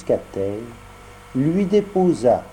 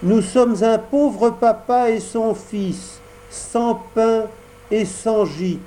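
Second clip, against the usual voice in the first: higher puppet voice, slow and pleading; Pinocchio voice; 9 semitones higher, slower than usual. Acted. Pinocchio begs at the cottage door, high and humble. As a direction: ask humbly for shelter.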